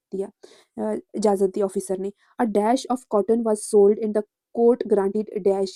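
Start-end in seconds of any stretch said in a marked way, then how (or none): 2.4-5.7 slow dictation reading. Shown as a demonstration. Reads quiz sentence aloud slowly.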